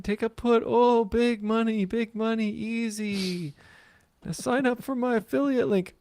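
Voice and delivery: high, slow mock Russian girl accent; mock hot girl Russian accent. Mocking a YouTube girl trader for the co-host, in a high Russian accent. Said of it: "a hot girl Russian accent".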